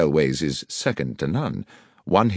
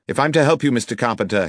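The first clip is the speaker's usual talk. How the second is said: higher, firm, pressing appeal; urgent detective; 6 semitones higher, 4 dB louder, faster than usual. Acted. Detective restraining the angry landlord, urgent and firm. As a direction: hold him back with urgent insistence.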